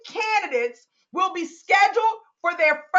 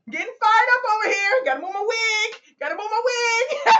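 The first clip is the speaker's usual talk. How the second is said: playful, raised-pitch flustered excitement; fired up; 4 semitones higher, faster than usual. Real, not acted. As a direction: get carried away, real excitement.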